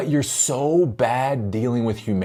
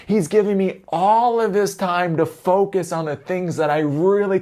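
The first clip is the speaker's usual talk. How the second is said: naive employee; 7 semitones higher than usual. Acted. Clueless employee praising absent boss.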